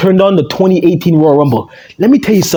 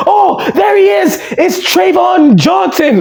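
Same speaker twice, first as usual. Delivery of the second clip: much higher, slow shouted announcer call; hyped announcer; 10 semitones higher, slower than usual. Retold or imitated. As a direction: bellow the name like a ring announcer. Mimicking announcer hyping entrance.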